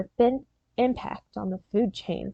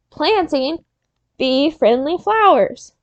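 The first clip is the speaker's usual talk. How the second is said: slow call-and-repeat; 3 semitones higher, slower than usual. Shown as a demonstration. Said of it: "One more time".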